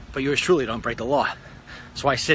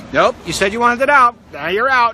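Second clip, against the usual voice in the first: stern coach; 9 semitones higher, 8 dB louder than usual. Pretend. Coach refusing benched player.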